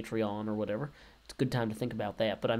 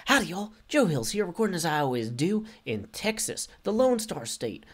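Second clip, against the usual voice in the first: higher, louder intro greeting; energetic retake; 4 semitones higher, 3 dB louder than usual. Shown as a demonstration. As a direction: punch up the howdy, higher and louder. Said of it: "No, Dallas".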